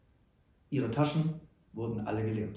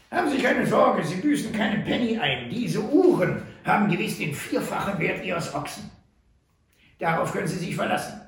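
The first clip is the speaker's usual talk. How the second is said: higher, louder friendly trapper; reassuring Sam; 6 semitones higher, 4 dB louder than usual. A narrator's reading. Sam reassures Schmidt about the watches, friendly. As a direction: reassure him warmly.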